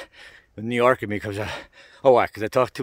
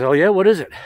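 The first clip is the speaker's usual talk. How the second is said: eager question; 8 semitones higher, 8 dB louder than usual. Retold or imitated. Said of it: "He goes".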